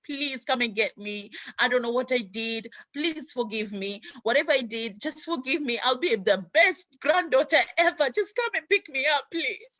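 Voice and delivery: put-on high, begging plea as a child; tearful pleading. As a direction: plead like a scared little girl in a letter. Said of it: "I was crying".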